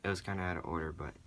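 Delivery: hoarse, hushed whisper; raspy whisper. Real, not acted. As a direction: whisper through a worn-out voice. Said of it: "Excuse my voice".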